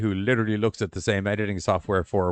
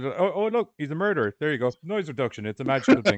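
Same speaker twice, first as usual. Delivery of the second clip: mock amazed; 6 semitones higher than usual. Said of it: "It's 'cause".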